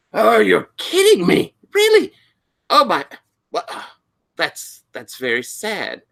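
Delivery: high, loud astonishment settling down; Doctor Pritchard. Acted. Librarian hearing shocking news from a student, high and astonished. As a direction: react aghast in a high voice, then subdue it. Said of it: "Doctor Pritchard going".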